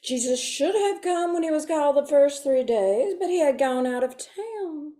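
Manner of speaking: lightly voiced prim Sunday school teacher; a hint of a genteel church lady lecturing kids. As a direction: tell the Bible story like a prim teacher to children. Sunday school teacher telling story.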